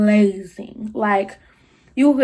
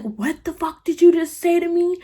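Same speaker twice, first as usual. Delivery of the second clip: high-pitched imitation of outrage; affronted mom; 8 semitones higher than usual. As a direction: act out an affronted challenge, pitched up. Angry mom answers the insult.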